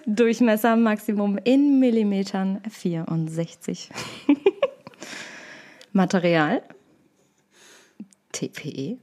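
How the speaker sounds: reading while fighting laughter; barely holding back giggles; giggly reading. Real, not acted. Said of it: "Ihr wolltet es so".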